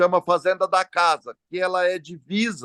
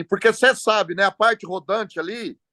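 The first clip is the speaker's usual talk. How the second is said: retold taunt, lightly pitched up; mocking; 3 semitones higher than usual. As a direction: imitate a know-it-all mechanic's jeer. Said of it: "com deboche".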